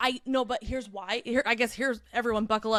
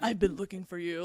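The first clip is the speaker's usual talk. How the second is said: low, soft romantic lead voice; deep male voice; 3 semitones lower, 5 dB quieter than usual. Shown as a demonstration. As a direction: drop low and soft, like a love interest. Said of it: "like, the deep".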